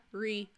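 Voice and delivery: Maria broken into ma, ree, uh; three separate syllables. Shown as a demonstration. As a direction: sound out Maria one syllable at a time. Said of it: "it's, like, three syllables".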